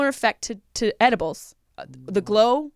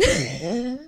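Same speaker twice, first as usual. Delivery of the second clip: smoker's laugh; 4 semitones lower, 4 dB quieter than usual. Real, not acted. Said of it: "you just did the fucking smoker's laugh".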